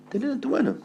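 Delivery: very high, soft "tenela en tu mano"; tiny high echo. Acted. Preacher echoing God's instruction, tiny high soft voice. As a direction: repeat "tenela en tu mano" small and squeaky.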